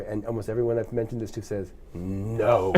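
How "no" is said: low, drawn-out sarcastic no; mock disbelief. Friends hearing of the A D D, mock disbelief. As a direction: stretch it out in feigned surprise. Retold disbelief at the ADD news.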